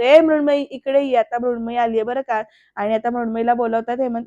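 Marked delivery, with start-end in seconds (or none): 0.0-1.2 mild mock shout, louder on the first call; lightly raised calling voice; shouted summons. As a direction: imitate a father calling his daughter over. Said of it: "जोरात इकडनं हेमंत ओरडत असतो".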